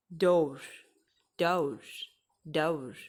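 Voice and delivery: डोर said as 'daur' with au; isolated, drawn-out डोर pronounced daur; 'au' sound demo. Shown as a demonstration. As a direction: open the vowel of डोर into a long au. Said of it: "औ की बात करूँ तो औ के sound को".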